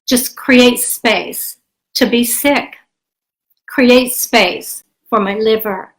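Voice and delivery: slow, gentle affirmation voice; meditation affirmation. Acted. Guiding listeners through breathing, a slow soothing affirmation. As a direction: breathe it out as a calm mantra.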